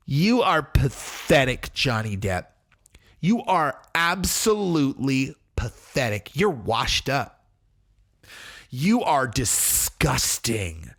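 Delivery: slow, drawn-out scornful put-down; mock contempt. Wife telling Johnny Depp he is pathetic, mock contempt. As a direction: imitate her unafraid, withering disdain. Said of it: "Does not talk like that".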